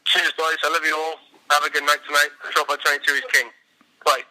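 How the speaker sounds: slurred words, several pints in. Real, not acted. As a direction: talk like you're twelve pints deep. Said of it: "about twelve pints deep".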